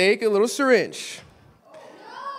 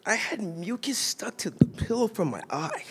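half-whispered, much softer confession; hushed aside; 7 dB quieter than usual. Real, not acted. Preacher sharing a graphic detail, hushed whisper. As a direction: drop to a near whisper for the gross part.

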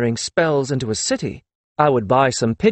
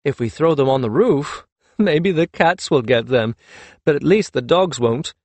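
still giggling. Acted. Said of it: "still giggling".

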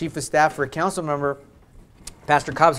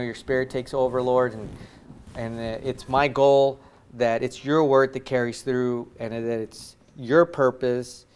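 closing prayer; 3 semitones lower than usual. Acted. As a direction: pray gently over the congregation.

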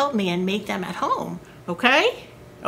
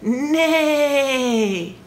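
horse neigh; 4 semitones higher than usual. Acted. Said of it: "and the horse said".

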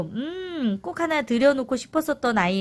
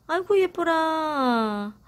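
cooing to plants; 5 semitones higher, much slower than usual. Real, not acted. Cooing over new offsets. (아기한테 말하듯 느리게 어르는 말투)

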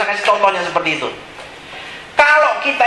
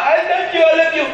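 high-pitched imitation of gushing devotion; mock adoring worshipper; 8 semitones higher than usual. Churchgoer declaring love to God in worship, mock adoring.

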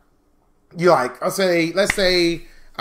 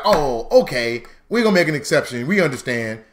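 mock lenient creditor; 4 semitones lower than usual. Voicing an unlikely lenient creditor.

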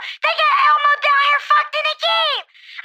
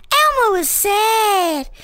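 sad; 5 semitones lower, much slower than usual. Acted. Sad Elmo, slow and low.

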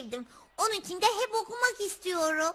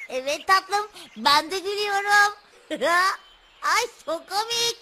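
laughing; 6 dB louder than usual. Real, not acted. Laughing along with the baby.

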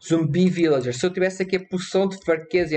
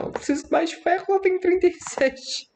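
panicked high yelp; 12 semitones higher than usual. Real, not acted. Panics at low iron count.

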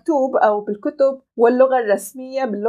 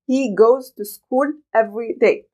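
robotic; much slower than usual. Shown as a demonstration. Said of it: "بهذه الطريقة".

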